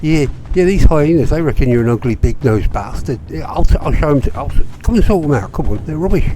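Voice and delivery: high, loud mock Brummie goading; mocking Birmingham accent. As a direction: stir up a fight in a Birmingham accent. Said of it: "Don't know why I'm doing that accent".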